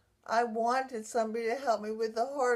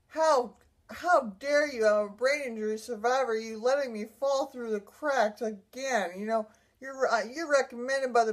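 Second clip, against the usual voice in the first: retold indignant anger. Survivor protesting to the agency on the phone, retold indignation. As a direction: re-enact an indignant complaint. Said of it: "I was mad as in a hornet".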